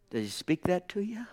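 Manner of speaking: hushed, breathy question; whisper. Acted. Preacher whispering a question to the congregation. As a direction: lean in and whisper it.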